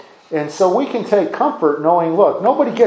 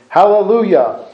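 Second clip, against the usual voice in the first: full-voiced hallelujah; loud praise; 4 semitones higher, 5 dB louder than usual. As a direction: ring out the hallelujah, louder. Heavenly multitude's praise in reading.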